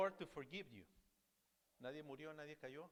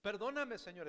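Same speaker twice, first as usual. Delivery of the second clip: begging; 5 semitones higher, 4 dB louder than usual. Retold or imitated.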